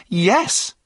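high, loud, firm yes. A narrator's reading. Runaway assuring the driver of his innocence, firm. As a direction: answer firmly, leaving no doubt. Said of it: "said John firmly".

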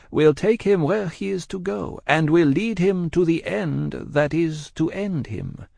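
slow, high, composed Madame. A narrator's reading. Madame answers her husband about destiny, slow and composed. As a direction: measure it out with composure. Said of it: "with her usual composure".

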